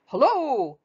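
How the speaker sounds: high, loud call of Hello; Tigger's high calling Hello. Acted. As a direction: sing out a long, bright Hello from afar. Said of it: "leaned down and shouted".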